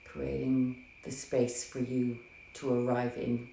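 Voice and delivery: gentle meditation guide, unhurried with long pauses; guided meditation. Acted. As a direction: ease listeners into their breath, softly and calmly. Leads guided breathing meditation.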